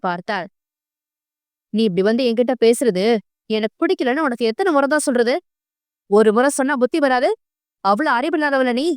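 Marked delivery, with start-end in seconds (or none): 1.7-8.9 fast, understated angry reproach; a touch of irritated scolding, quick; mild angry scolding. Acted. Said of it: "ஆத்திரத்துடன் கேட்டான்".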